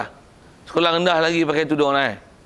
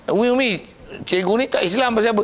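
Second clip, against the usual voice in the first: put-on child calling mum; 5 semitones higher, faster than usual.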